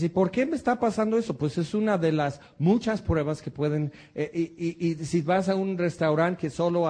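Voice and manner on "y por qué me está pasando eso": quick, higher mock whine; a hint of a worried believer's whine; imitated complaint. Preacher voicing a troubled believer, quick mock whine. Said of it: "Y dices".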